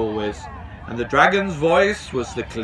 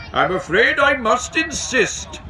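high-pitched official insisting; insistent station master; 11 semitones higher, 3 dB louder than usual. A narrator's reading. Station master orders the dragon into the basket, insistent high voice. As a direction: stand firm in a raised, officious pitch. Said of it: "said Dai".

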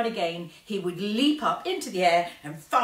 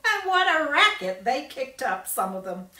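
laughing; 10 semitones higher, 6 dB louder than usual. Acted. Violet laughing at prank.

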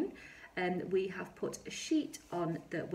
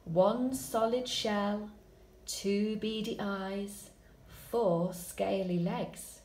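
slow read; much slower than usual. Shown as a demonstration. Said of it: "So my adjectives are solid, beady, and scaly".

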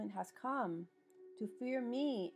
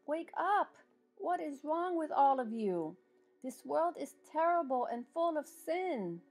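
fiery preaching; 3 semitones higher than usual. Acted. Preaching climax calling to repent.

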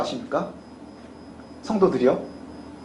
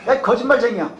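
mild acted rebuke; scolding; 4 semitones higher than usual. Israelites rebuking Jeremiah as a liar, mildly scolding. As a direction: scold with a touch of anger. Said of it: "호통을 칩니다".

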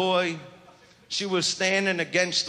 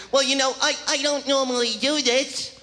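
higher prim woman's excuse; mock coy excuse; 6 semitones higher than usual. Mock woman claiming she never does this. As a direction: say it demure, pretending innocence. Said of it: "they come up with all their excuses".

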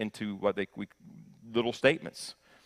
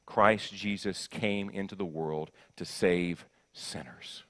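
slow solemn statement; 3 semitones lower, 3 dB quieter, slower than usual. Shown as a demonstration. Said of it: "Can you say that with me?".

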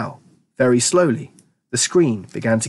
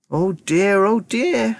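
fretting; 9 semitones higher, much slower than usual. A narrator's reading. Wonka frets over the missing boy.

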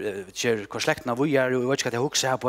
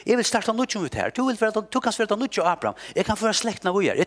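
voicing God, much higher and insistent; God's voice; 9 semitones higher, 4 dB louder than usual. Preacher voicing God offering Moses a new nation, lofty. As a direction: proclaim it as God starting anew.

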